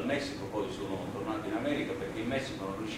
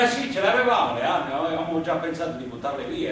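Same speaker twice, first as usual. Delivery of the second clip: louder, higher heated confession; loud admission; 4 semitones higher, 8 dB louder than usual. Acted. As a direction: blurt it out heatedly. Admitting the weapons in court.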